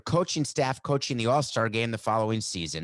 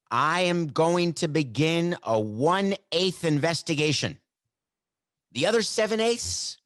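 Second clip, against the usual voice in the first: slow, high, emphatic announcement; mock pronouncement; 6 semitones higher, 4 dB louder than usual. Mock commissioner announcing a one-eighth investigation, emphatic. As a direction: declare it grandly, each word punched.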